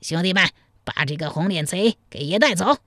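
mild, narrated version of a shouted command; understated gang boss's call; shouted order. Acted. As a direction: order the gang about with some force. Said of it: "掉头喊道".

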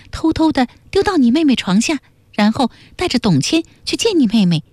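put-on high-pitched young accuser, each phrase set out firmly; high, insistent character voice; pointed accusation. A narrator's reading. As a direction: lay out the charges phrase by phrase, high. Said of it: "半儿一字一句地说".

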